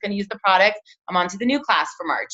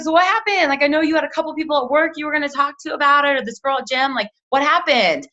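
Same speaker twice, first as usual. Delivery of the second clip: upbeat check-in; 6 semitones higher than usual. Retold or imitated. Friendly follow-up check-in quote.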